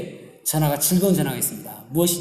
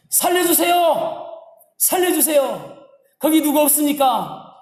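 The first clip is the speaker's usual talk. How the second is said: high, drawn-out mock shouting for rescue; acted cry for help; 9 semitones higher, slower than usual. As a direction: call out for anyone who can save you. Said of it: "그래서 소리칩니다". (높은 목소리로 살려달라고 외치는 연기)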